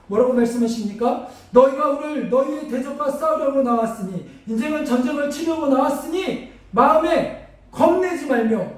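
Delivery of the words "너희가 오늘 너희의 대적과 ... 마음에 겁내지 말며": preaching scripture. Acted. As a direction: proclaim it to the troops.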